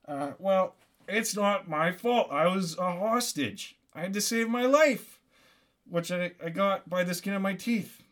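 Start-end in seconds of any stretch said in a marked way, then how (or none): 0.1-5.2 defensive protest. Acted. Defensive answer to imagined objections.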